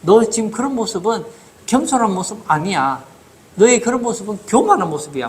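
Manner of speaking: understated scolding of someone's false modesty; angry rebuke. Retold or imitated. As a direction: voice God's displeasure with restraint. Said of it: "하나님 화내신다고요".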